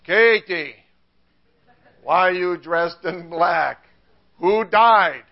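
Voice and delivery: put-on German accent, slowly drawn out; Martin Luther. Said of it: "my best Martin Luther accent".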